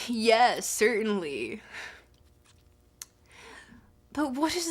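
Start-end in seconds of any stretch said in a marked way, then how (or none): 0.1-1.6 put-on laid-back surfer accent, lightly done; easy surfer-dude reply; a touch of a California surfer accent. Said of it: "you suggesting the surfer accent, peak".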